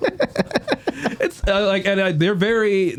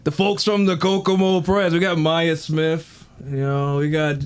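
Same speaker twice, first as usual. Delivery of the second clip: a lightly voiced wrestler cutting a promo; growl-free, hammed-up trash talk at the clowns; wrestling promo voice. Wrestler cutting a promo at the clowns, lightly hammed-up. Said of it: "I gotta figure out my voice".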